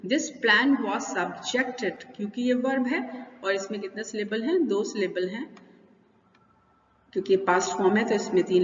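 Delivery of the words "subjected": subjected slowly, with a strong JECT in the middle; second-syllable stress. Shown as a demonstration. Teacher showing the verb form, subjected stressed on JECT. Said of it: "second syllable पर रहेगा।".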